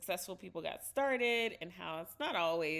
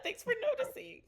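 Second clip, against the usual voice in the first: mock flustered thanks; faster than usual. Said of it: "And you're like".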